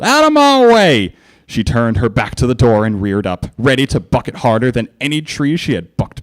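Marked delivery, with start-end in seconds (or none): 0.0-1.1 high, loud, slow shout; angry shout. A narrator's reading. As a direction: clear the way. Applejack charging door.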